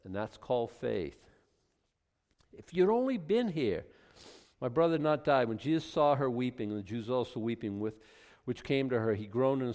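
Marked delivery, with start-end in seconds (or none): 2.5-5.5 a touch of reproach in the plea; lightly acted grieving blame; mild accusation. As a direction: blame him gently, pitched a little up. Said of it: "there's a little bit of an accusation there".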